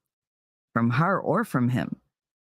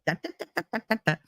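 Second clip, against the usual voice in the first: bouncy da da; 6 semitones higher, much faster than usual. Retold or imitated. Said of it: "just that bouncy".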